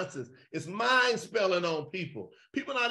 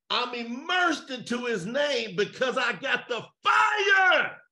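fervent preaching cry; 2 semitones higher than usual. Real, not acted. Preaching climax about fire.

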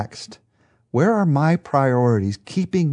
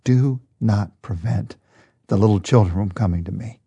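gentle voice; 3 semitones lower than usual. Retold or imitated. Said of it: "a rich, gentle, powerful voice".

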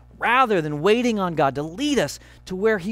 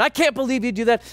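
raised, fast, yelling at wife; hammed-up shouting at spouse; mock screaming; 6 semitones higher, faster than usual. Husband yelling at wife in the car, raised and fast.

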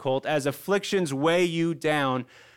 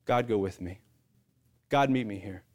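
low, softened prayer with space between pleas; simple prayer; 6 semitones lower, 3 dB quieter than usual. Shown as a demonstration. Pastor models a simple prayer for listeners, low and prayerful. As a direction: pray it simply, dropping the pitch. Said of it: "to begin to pray a simple prayer".

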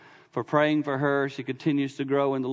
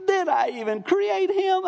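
lightly voiced God, high and slow, baffled; mock God in disbelief; slower than usual. God in heaven looking at the man, high, slow disbelief. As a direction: play God shaking his head at a fool.

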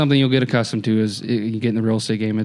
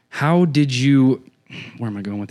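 trailing off; 2 semitones higher than usual. Real, not acted. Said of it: "I lost my train of thought".

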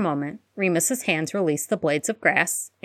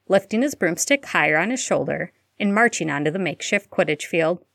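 usual speaking voice

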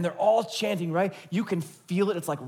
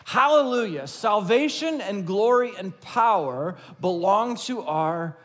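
shouted praise. Retold or imitated. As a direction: call it out like a joyful crowd.

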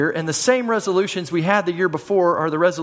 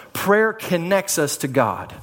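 slow emphatic point; slower than usual. Shown as a demonstration.

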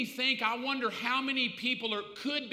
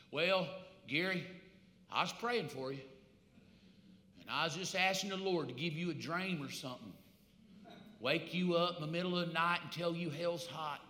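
sheepish excuse; 5 semitones lower, 8 dB quieter than usual. Acted. Preacher's lame excuse to brother.

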